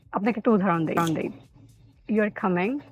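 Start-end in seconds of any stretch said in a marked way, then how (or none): 2.1-2.8 equal stress on "You are coming"; monotone "You are coming"; flat intonation. Shown as a demonstration. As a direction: say "You are coming" evenly, no word standing out. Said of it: "flat ইন্টোনেশনের কথা বলেছি".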